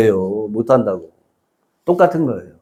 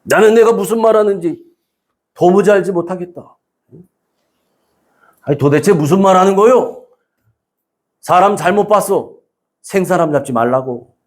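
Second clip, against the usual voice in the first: acted indignant denial, pitched up at first; flat denial; 4 semitones higher than usual. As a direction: protest innocence as if wrongly accused. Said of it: "이러면서 딱 잡았대요".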